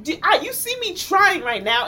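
high, loud protest; worked-up appeal, imitating an argument; exasperated plea. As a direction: insist that you really are trying. Retells own pleading in argument.

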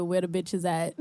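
laughing. Retold or imitated. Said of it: "quoting his tweet back".

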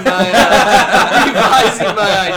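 giggling through it; laughing. Real, not acted. Laughing while revising pick.

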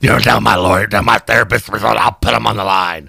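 lightly imitating his raspy voice; Harvey Fierstein impression. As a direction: play the frantic movie guy. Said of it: "I sound like".

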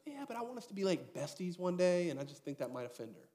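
a hint of a fretting mother; mock wife voice. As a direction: play the anxious wife, half joking. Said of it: "she looks at me and goes".

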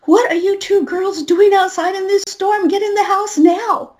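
put-on high, stern call to the girls; playing the strict grown-up; adult scolding kids. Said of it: "I said, being the adult".

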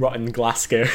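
Scottish-accented "Glasgow", short second vowel; attempted Scottish accent. Shown as a demonstration. Friend joining the Scottish practice, attempted accent. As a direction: try "Glasgow" like a Scot. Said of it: "Scottish is the one I've tried".

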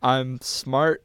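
unserious, smirking self-affirmation. Shown as a demonstration. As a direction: say it through a smirk, unconvinced. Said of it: "Not with a smirk".

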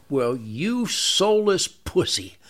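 drawn out slowly, each word weighed with scorn; slow contempt. Pretend. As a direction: stare him down and drag every word out. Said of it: "Look him right in the eye and go".

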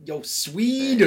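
high, slow call across a shop. Pretend. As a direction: sing it out high and drawn out. Imagined someone calling out in IKEA.

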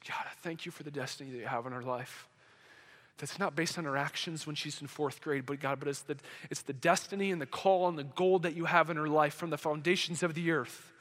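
low, soft prayer of thanks; soft, low, intimate praying voice; hushed prayer. Retold or imitated. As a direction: pray it quietly and earnestly over a child. Retold prayer over the girl.

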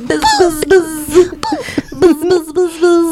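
bug voice. Pretend. Voicing the bug.

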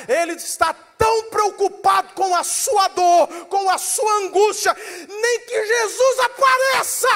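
high, loud pulpit shouting; impassioned preacher at full cry; full-force preaching. Real, not acted. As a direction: drive each phrase home to the congregation.

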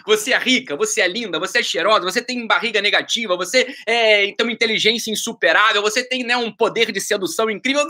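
sarcastic list of compliments, laid on thick; mocking flattery. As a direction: tease her by overpraising. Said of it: "respondi com um deboche".

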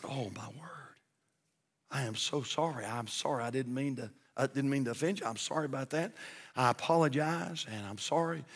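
soft, near-whispered sorry; mild hushed embarrassment; hushed apology. Acted. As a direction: drop to a hush of apology. Fan apologizes to grieving man.

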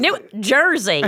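slowly stretched "New Jersey"; drawn-out accent check. Shown as a demonstration. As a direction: say "New Jersey" slowly, leaning on each word. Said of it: "you say New York and it came out Ju".

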